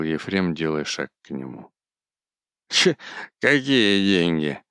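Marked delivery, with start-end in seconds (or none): 2.7-4.6 careless drawl. A narrator's reading. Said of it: "небрежно сквозь зубы процедил".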